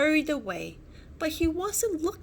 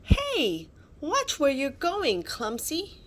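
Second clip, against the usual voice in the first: higher, louder indignant shout; 5 semitones higher, 3 dB louder than usual. Acted. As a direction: yell at the clumsy flier. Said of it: "shouted Sid".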